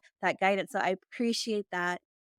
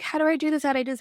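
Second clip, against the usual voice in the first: higher, louder mock panic; 6 semitones higher, 4 dB louder, much faster than usual. Host imitating anxious people, mock panic. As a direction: play the frantic worrier, lightly. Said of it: "people get so crazy".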